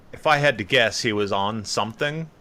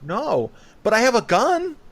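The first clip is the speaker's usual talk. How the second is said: put-on high kid's voice with a sly turn; hammed-up menacing girl; creepy little girl; 12 semitones higher, 4 dB louder than usual. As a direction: play a sweet kid revealing a threat. Mock girl threatens with gun.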